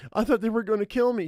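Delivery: put-on high-pitched girl voice, rattled; frightened teenage girl.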